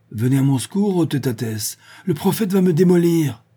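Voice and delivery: high, loud theatrical plea; mock call for help. A narrator's reading. Old druid calls on his god against the prophet, mock call for help. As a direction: cry out in comic alarm, rising to a shout.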